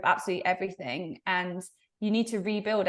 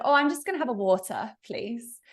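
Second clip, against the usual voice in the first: polite English order with a crisp British water; English accent; 3 semitones higher than usual. Retold or imitated. To the Canadian waitress, ordering politely in an English accent. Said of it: "and I just said".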